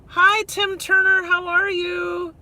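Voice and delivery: lilting high livestream greeter's hello; live-stream greeting voice. Shown as a demonstration. Greeting a viewer on stream in a sing-song high hello. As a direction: chirp the hello like every live streamer does. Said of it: "Did you hear that?".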